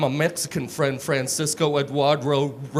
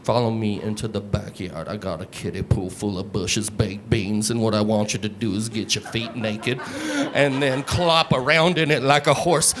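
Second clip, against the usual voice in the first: creepy seductive come-on; 6 semitones lower than usual. Retold or imitated. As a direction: purr it low like a creep luring someone. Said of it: "I can be like".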